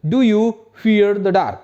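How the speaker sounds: teacher drills a question slowly and loudly; slow loud model question. Shown as a demonstration. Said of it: "क्या बोलेंगे?".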